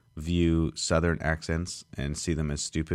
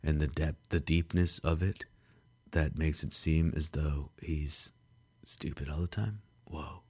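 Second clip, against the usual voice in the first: Keanu Reeves voice. Shown as a demonstration. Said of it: "was that an okay Keanu Reeves voice".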